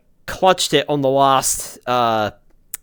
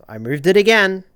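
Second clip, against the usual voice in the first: louder, frustrated groan at himself; annoyed at his own slip; exasperated; 6 semitones higher, 6 dB louder than usual. Real, not acted.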